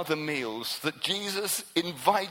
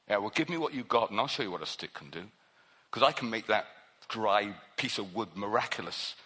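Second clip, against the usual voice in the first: God answering Moses, lightly voiced and steady; God's answer; 7 semitones lower, faster than usual. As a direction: speak as God calmly daring him. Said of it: "And he says".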